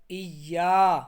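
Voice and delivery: ordinary delivery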